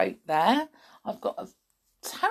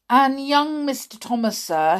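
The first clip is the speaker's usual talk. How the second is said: louder, calling down the corridor; 8 semitones higher, 7 dB louder than usual. A narrator's reading. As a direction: call after him. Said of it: "he called out".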